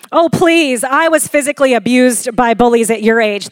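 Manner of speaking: mock scoff, loud at first then dropping; exaggerated dismissive one-upping; invalidating parent. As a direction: brush off a child's hurt, acted out.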